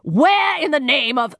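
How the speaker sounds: high, broken-off astonished questions; can't finish a sentence for surprise; sputtering shock. A narrator's reading. Mycroft stunned by his disguised sister, sputtering high.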